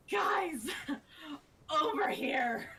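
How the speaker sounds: high, loud mock call through laughter. Amelia's big magic words flag everyone down, mock calling out. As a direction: holler it playfully to the group.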